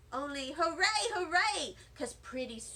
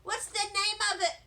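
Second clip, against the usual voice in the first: eager; 4 semitones higher, 3 dB louder than usual. Acted. Herb eagerly asks the janitor.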